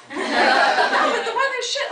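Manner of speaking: slow, laughing local grumble; mock grumbling local. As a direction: drag it out like a fed-up local.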